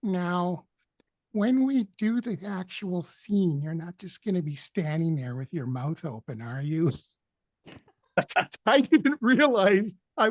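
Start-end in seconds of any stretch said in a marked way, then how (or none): 0.0-6.9 a light hint of Capote, slowed at the start; half-hearted Capote voice. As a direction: sketch the voice, admitting you can't really do it. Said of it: "I can't really do a Capote voice".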